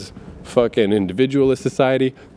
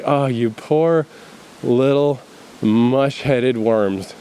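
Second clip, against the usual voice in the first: drawn-out mock sympathy; slow, patronising mock pity; much slower than usual. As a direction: pity them slowly and condescendingly.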